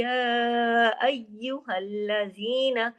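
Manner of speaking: very slow chanted recitation; Quran recitation. Shown as a demonstration. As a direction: recite with idgham, drawn out. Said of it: "सख्ती से अगले या के साथ". (धीमी तजवीद वाली तिलावत)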